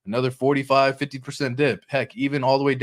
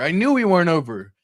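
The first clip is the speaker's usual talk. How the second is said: higher and louder, hitting knew; rising excitement; 5 semitones higher, 4 dB louder than usual. Retold or imitated. Investor repeating himself, higher and louder on knew. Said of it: "You're like".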